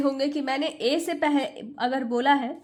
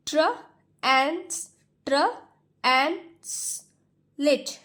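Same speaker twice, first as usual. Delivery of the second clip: एन, स stretched out very slowly; much slower than usual. Shown as a demonstration. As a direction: stretch each sound out for the class. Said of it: "blending demo". (बहुत धीरे, हर ध्वनि खींचकर)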